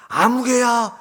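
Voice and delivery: high, drawn-out mountaintop yelling; cursing a bully at full volume; acted angry shout. Mother curses her son's bully from the mountaintop, shouting. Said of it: "엄마가 막 소리를 쳐요".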